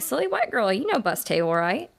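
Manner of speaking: imitating a boss's accented English; mock Asian accent. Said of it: "that accent".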